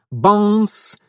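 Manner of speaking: loud clanging imitated; clang sound. A narrator's reading. Narrator imitating the hatch ring clanging. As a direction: bang it out like metal knocking.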